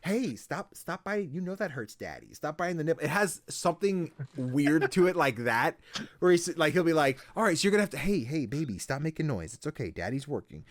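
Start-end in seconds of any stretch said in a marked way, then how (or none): 0.0-3.0 weird dad boss. Retold or imitated. Boss voiced scolding his baby. 7.3-10.7 hushing dad. Retold or imitated. Boss hushing baby mid-instruction.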